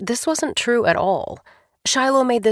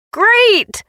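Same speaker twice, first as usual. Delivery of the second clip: through gritted teeth; 14 semitones higher, 7 dB louder than usual. A narrator's reading. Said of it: "I said through gritted teeth".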